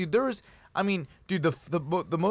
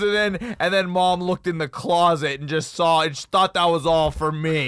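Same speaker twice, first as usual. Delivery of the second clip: excited retelling; 3 semitones higher, 5 dB louder than usual. Retold or imitated. Excitedly retelling brother's story.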